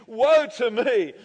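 dramatic preacher's wail; acted cry of woe. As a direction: declaim it as a slow lament. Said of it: "I cried".

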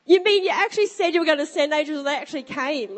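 high, fast astonished exclamation; amazed. Retold or imitated. Amazed at the angels' arrival, high fast amazed cry. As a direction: gasp it out in wonder.

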